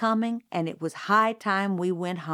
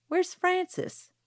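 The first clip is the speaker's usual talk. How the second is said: stern aunt calling; 11 semitones higher, slower than usual. A narrator's reading. Aunt Alexandra calls for grandson.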